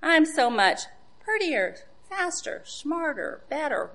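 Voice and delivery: high-pitched mock bragging; boasting. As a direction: preen through the list of comparatives. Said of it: "shouting at them".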